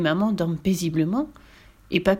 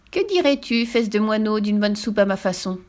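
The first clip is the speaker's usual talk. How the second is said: witch voice. Acted. Witch taunts the captive boy.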